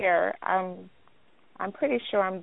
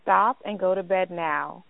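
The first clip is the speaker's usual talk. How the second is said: firm parent at bedtime; mild firm command; understated stern mom; authoritative tone. Real, not acted. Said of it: "did you just recognize that authoritative tone".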